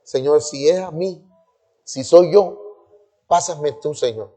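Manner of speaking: soft, tentative retold plea; private prayer. Young man asking God to move him, softly praying. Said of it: "yo dije".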